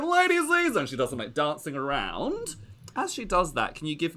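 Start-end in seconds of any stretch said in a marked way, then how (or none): 0.0-0.8 gloating aunt voice. Acted. Lady Ziza taunting the player at the dice table, high gushing diva. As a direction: coo the taunt sweetly, pitched way up. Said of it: "she's like".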